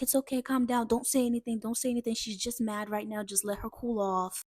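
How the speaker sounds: soft, hushed reassurance; soothing. Retold or imitated. Neighbor calming dad after the whooping, soothing. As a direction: trail down gently to settle someone.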